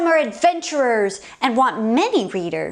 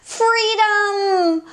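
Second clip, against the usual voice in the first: high happy shout; joyful cry; 9 semitones higher than usual. Acted. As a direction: cry it out with relief. Maury escapes joyfully.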